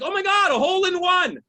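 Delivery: mildly hammed-up amazement; mock excitement. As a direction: lightly gush like a thrilled spectator. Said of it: "they always get excited".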